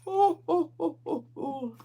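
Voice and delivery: high yawning "oh"s, falling away; big yawn. Real, not acted. Relaxed crocheter interrupting her livestream with a vocal yawn. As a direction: let out a broken, vocal yawn. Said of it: "I'm just so relaxed".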